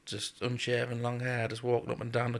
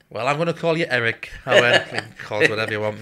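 raised retold voices; 10 dB louder than usual. Retold exchange with an inmate.

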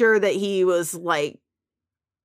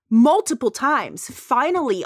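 ordinary talk

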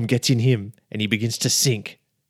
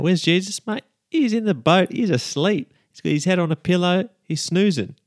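freaking out; 6 semitones higher than usual. Acted. Disciples freaking out in storm.

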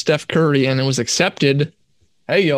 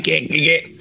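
laughing. Real, not acted. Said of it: "I'm crying".

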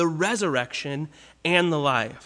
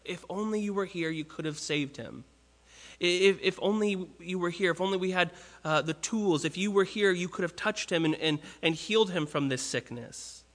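quiet, grieving plea, trailing softer; mournful lament; 5 dB quieter than usual. Retold or imitated. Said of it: "She's just crying out".

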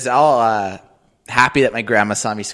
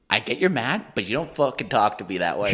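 measured reply, lower than the tantrum; mildly stern dad; 3 semitones lower, 5 dB quieter than usual. Retold or imitated. Dad corrects his swearing kid, understated sternness. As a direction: lightly imitate a parent setting limits.

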